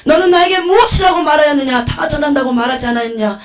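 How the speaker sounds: loud, high accusing questions; divine rebuke. Acted. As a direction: thunder reproach at the servant as the Lord. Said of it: "그러면서 책망을 하시는 거예요".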